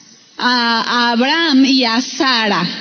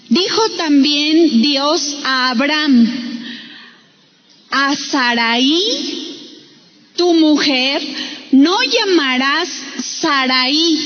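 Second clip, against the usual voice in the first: measured, slowed Bible reading; scripture reading; slower than usual. Acted. Preacher reading God's words to the congregation, deliberate scripture reading. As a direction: read the verse out deliberately, with pauses.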